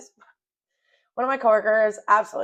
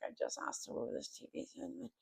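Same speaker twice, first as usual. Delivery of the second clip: whispered quote; 4 semitones higher, 20 dB quieter than usual. Retold or imitated. Angry quoted thought at work.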